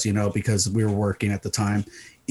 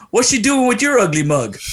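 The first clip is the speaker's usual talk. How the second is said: lightly voiced teasing celebrity; 10 semitones higher, 3 dB louder than usual. Retelling celebrity's teasing punchline.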